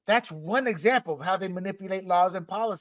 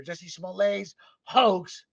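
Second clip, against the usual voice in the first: "Smollett's" said French-style as smo-LAYS; slow French-tinged "Smollett's"; French accent; 2 semitones higher, slower than usual. Shown as a demonstration. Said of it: "throw the French accent in there".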